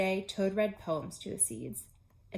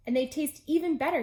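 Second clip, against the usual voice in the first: excited; 6 semitones higher, 6 dB louder than usual. Acted. Toad delighted.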